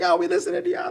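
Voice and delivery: a fan calling in the radio show; caller voice. Retold or imitated. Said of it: "I would get calls in and be like".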